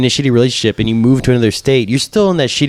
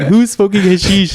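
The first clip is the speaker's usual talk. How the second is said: incredulous commander; 7 semitones higher, slower than usual. Retold or imitated. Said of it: "He's like".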